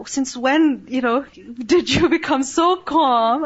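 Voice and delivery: slow, amazed question to her calm dad; mildly incredulous at her dad's calm; a touch of astonishment; retold surprise. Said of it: "But I was quite surprised".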